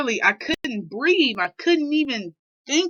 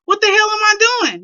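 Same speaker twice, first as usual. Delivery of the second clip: distressed outburst; 9 semitones higher, 5 dB louder, faster than usual. Real, not acted. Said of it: "That's how I felt".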